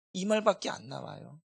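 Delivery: ordinary talk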